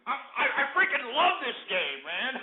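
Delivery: gleeful laughing. Real, not acted. Gloating after caller's slip.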